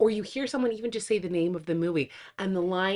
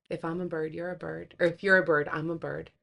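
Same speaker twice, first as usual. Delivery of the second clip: tender quote; 3 semitones lower than usual. Retold or imitated. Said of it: "the first one is".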